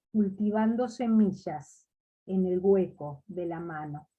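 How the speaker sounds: measured recital with pauses between verses; poetry reading. Acted. Poet reading a homage to Leonardo, measured poetry recital. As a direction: read the poem aloud, letting each line settle at its end. Reads own poem aloud.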